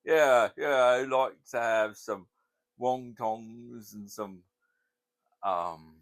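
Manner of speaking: high, loud, slow put-on voice; mock order voice. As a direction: order food hamming it up. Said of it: "So I'd say".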